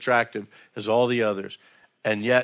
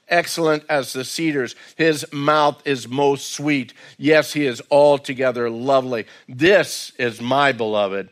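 scripture reading. Acted. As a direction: linger over each image of the beloved. Reads scripture passage.

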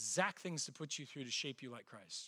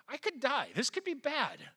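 higher, half-joking alarm on the ladder; retelling his ladder scare in a mock-worried voice; mock panic; 7 semitones higher than usual. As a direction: play up the fear of falling, lightly. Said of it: "I'm standing on that ladder going".

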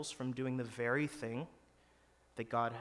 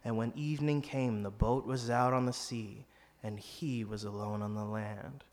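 lightly spooky, foreboding read; 4 semitones lower than usual. Shown as a demonstration. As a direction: read it like a hint of a ghost story. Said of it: "I'll do it in a spooky voice for you".

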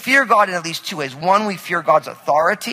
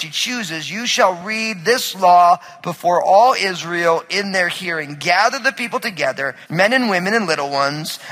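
scripture reading. Acted. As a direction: read the passage aloud to the church with weight. Reading scripture aloud to congregation.

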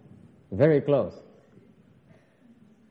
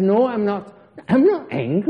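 loud, high, mock-tearful wail; hammed-up upset denial; 6 semitones higher, 7 dB louder than usual. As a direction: deny it while plainly sounding upset. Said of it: "He's upset, he says".

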